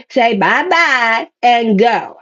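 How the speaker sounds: slow, drawn-out singsong farewell; teasing slow goodbye to the past; singsong bye-bye. Pretend. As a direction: sing them off with a slow wave goodbye. Waving off the past.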